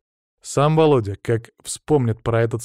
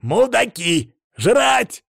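sharp outcry; 11 semitones higher, 4 dB louder, much slower than usual. A narrator's reading. Urgent cries as cars box in.

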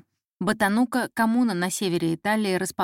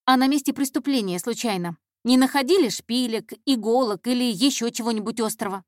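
put-on higher girl's voice, pressing questions; eager, probing intern; 3 semitones higher than usual. Intern questioning the detective about evidence, eagerly. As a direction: probe keenly for a clue.

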